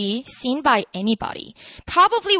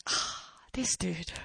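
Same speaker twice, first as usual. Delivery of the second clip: very soft, slow sighed aside; exasperated; 7 semitones lower, 15 dB quieter, slower than usual. Acted. Woman reacting to Jesus's big promise, exasperated. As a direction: sigh it under your breath, drawn out.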